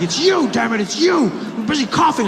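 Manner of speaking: high loud frantic shouting; hysterical yelling. Retold or imitated. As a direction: scream it in panic. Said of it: "He's like".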